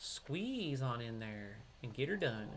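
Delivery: slow hillbilly accent; hillbilly twang, easygoing and slow. Real, not acted. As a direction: let the hillbilly accent slip out, drawn out. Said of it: "the hillbilly accent's coming out".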